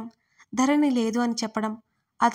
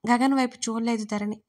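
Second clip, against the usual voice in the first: ordinary delivery, nothing marked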